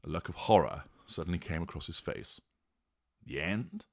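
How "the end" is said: softer, sinking realisation; voice dropping. Acted. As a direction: let the voice fall away in dread. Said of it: "his voice dropping".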